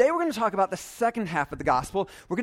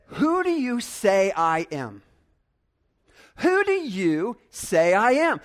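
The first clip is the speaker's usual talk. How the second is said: slow, even stress on DO; "Who do you say I am" slowly, leaning on "do"; measured, pondering question; quoting Jesus; 3 dB louder, slower than usual. Shown as a demonstration. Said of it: "I don't know how he said that".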